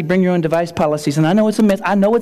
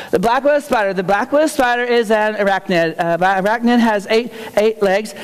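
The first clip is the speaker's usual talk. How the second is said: put-on nervous kid. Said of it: "they're all nervous".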